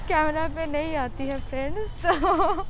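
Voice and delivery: muffled through cloth mask; speaking with mouth covered; through a face mask. Real, not acted. Seen 2: Selfie speaker wears checked cloth mask over mouth throughout.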